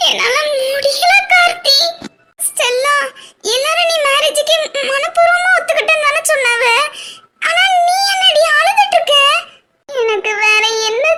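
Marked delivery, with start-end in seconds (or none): 0.1-1.8 breaking into sobs; crying. Acted. Bride confides in Karthi, crying. 7.5-9.1 high, urgent and tearful; alarmed call. Acted. Friend confronts the crying bride, tearful and alarmed.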